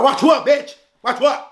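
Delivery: high-pitched sarcastic challenge; acted-out moody comeback; sarcastic, mad. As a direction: throw it back at him, high and taunting. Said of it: "I'm just fucking being sarcastic".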